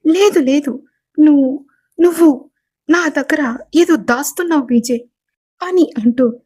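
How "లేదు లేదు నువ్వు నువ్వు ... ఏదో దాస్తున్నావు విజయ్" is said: higher, stumbling, repeated words; mild frantic insistence; panicked accusation. Acted. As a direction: blurt it out in panic. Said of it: "panic అవుతూ మాట్లాడేస్తుంది".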